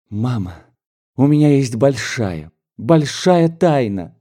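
put-on young bride-to-be, barely holding in her joy; lightly voiced young daughter. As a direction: let the happy secret bubble up. Daughter confides joyful secret.

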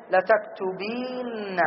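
the word لتكتبين said very slowly and softly; slow drawn-out demo. Shown as a demonstration. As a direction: stretch out لتكتبين for the class. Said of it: "نون الرفع". (نطق لتكتبين ببطء)

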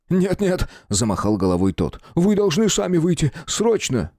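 high, pressing alarm; the guard begging the captain to hurry; panicked urgency. Acted. (паническая спешка)

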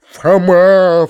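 loud, high shout of the name; frenzied cry. A narrator's reading. Uncle cuts Foma off, frenzied cry. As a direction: cry out the name, beside yourself. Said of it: "вскричал дядя в исступлении".

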